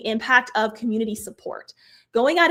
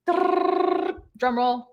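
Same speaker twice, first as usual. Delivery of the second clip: mock drum roll; 6 semitones higher than usual. Shown as a demonstration. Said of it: "That was my attempt at a drum roll".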